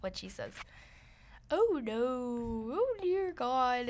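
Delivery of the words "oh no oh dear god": mock British accent. Shown as a demonstration. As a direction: ham up a loose British accent with swooping vowels. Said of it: "doing my own spin off of".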